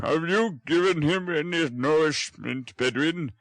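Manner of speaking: brisk and fussy; brisk old gentleman. Acted. Brownlow quizzes the housekeeper about food.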